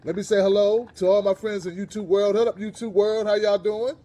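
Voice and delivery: big shout-out to viewers; calling out greeting. Real, not acted. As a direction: hail the online audience loudly. Host hailing his YouTube audience.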